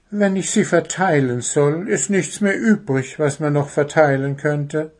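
a hint of a high bird voice; reasoning little bird. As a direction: think it through as a little bird.

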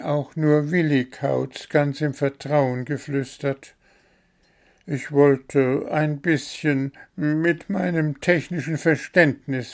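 a small bird explaining himself in a rush; the bird confesses to the gnome, fretful; worried little bird. Acted. Bird's long excuse.

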